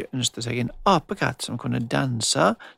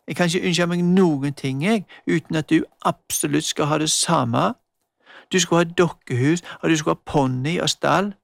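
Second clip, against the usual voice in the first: put-on mildly annoyed girl, a bit louder; sulky girl Magda; 2 semitones higher, 4 dB louder than usual. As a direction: complain to her sister, fed up. Magda scolding Emma.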